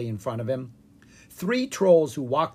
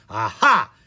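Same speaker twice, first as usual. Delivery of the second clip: yelled; 3 semitones lower, 8 dB louder than usual. Acted. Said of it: "Ella yelled".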